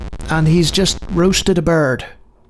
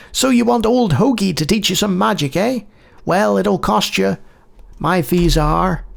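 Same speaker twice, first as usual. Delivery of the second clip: put-on old mage; 3 semitones higher than usual. Old mage offering magic lessons for a fee, lightly voiced.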